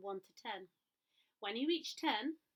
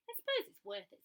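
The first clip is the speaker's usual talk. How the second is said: reluctant; 13 semitones higher than usual. A narrator's reading. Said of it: "said Gumboot".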